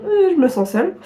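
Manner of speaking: imitating her own tearful whine; lightly hammed-up sobby complaint; mock weepy. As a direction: put on a small mock-crying voice. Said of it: "une vidéo où je chiale mes morts".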